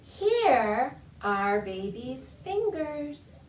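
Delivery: slow sing-song rhyme; finger rhyme recital. Shown as a demonstration. Librarian reciting a baby finger rhyme. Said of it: "It's a spoken rhyme and it goes like this".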